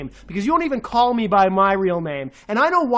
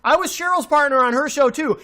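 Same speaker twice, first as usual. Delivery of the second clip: higher, angry bark of screw you; angry outburst; 5 semitones higher than usual. Real, not acted. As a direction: spit it at him in fury. Furious rant at critic.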